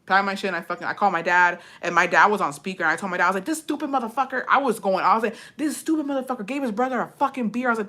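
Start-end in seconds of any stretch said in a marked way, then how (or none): 3.5-4.4 higher-pitched re-enacted venting; retold angry rant. Daughter complaining to dad on speaker, retold indignation. Retells ranting to dad by phone. 5.6-7.7 higher-pitched indignant venting, re-enacted; retold angry rant. Daughter telling dad about the beer, retold indignation. Retells ranting to dad by phone.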